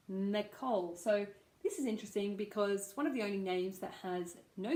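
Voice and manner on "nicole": "Nicole" with stress on COLE; careful "Nicole", light first syllable, falling on the second. Shown as a demonstration. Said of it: "stress on the second syllable".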